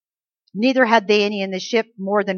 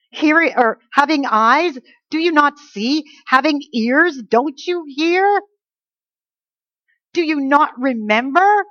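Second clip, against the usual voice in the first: rising, pleading rebuke that keeps climbing higher; exasperated Jesus; 3 semitones higher than usual. Acted. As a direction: scold the disciples, growing more exasperated. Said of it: "He's so exasperated with these guys".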